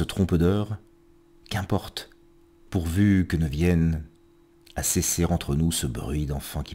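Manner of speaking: measured verse reading with pauses between lines; poetry recitation. Acted. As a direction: recite each line deliberately, letting endings fall away. Reads poems aloud on programme.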